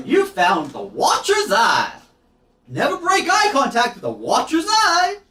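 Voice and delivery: high, drawn-out theatrical shout; hammed-up creature announcement at full volume; booming Watcher's Eye. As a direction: proclaim it as an over-the-top monster. Game master voices the giant eyeball.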